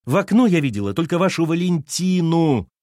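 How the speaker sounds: high, loud cry of despair; despairing shout. A narrator's reading. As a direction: cry it out, at the end of her rope. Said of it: "крикнула Лена с отчаянием". (крик с отчаянием)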